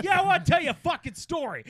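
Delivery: high, pushed East Coast comic voice; Joey Diaz. Pretend. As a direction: launch into it like a brash East Coast storyteller. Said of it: "adopting your East Coast character and going out Joey Diaz style".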